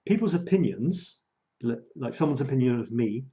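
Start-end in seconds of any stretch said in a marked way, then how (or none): 0.1-1.2 slow, higher-pitched, spelled-out phrasing; slow down so it can be followed; deliberate, measured restatement; said slowly. Shown as a demonstration. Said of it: "I'll say that slowly".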